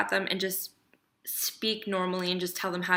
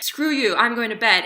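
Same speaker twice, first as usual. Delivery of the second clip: mock angry; 3 semitones higher, 6 dB louder than usual. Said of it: "how do people fight?".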